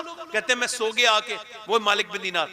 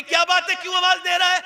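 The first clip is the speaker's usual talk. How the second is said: higher, louder reply; mother answering; 7 semitones higher, 4 dB louder than usual. Acted. Mother answering her son's call, raised concern. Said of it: "माँ कहेगी".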